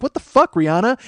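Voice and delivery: high-pitched, incredulous outburst; mock outrage. Everybody tweeting at a singer, mock outraged disbelief. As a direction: imitate an appalled public. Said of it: "everybody's like".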